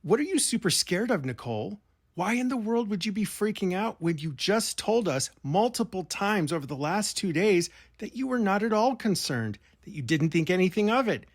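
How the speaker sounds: imagined confrontation. Pretend. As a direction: grill her as if you were on the call. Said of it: "if I had been on the call, I would have asked".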